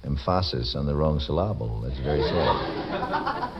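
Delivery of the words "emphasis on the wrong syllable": "emphasis" and "syllable" both stressed on the second syllable; wrong-syllable stress. Shown as a demonstration. Host joking about accents in the right place, "emphasis" and "syllable" misstressed on second syllables. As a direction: say em-PHA-sis for "emphasis", syl-LA-ble for "syllable". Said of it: "You must never put the".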